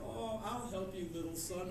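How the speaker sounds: soft, soothing helper voice; quiet, tender offer of help; kindly reassurance. Acted. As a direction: gently comfort a lost child. Kindly adult reassures lost child.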